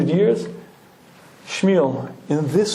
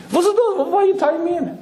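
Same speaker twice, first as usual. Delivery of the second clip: put-on high, panicky old-world voice; a scared yeshiva man from the past; frightened Shmuel; 13 semitones higher, faster than usual. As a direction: squeal like a bewildered time traveller. Frightened Shmuel strapped in car.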